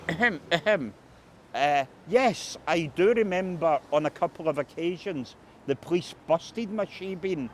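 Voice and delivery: lightly voiced eccentric Bobby; eccentric old anarchist. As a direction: mimic his odd mannerisms. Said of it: "very strange mannerisms".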